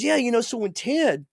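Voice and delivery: imitating the quarterback starting his tale; the old quarterback. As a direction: slip into his voice for the story. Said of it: "He goes".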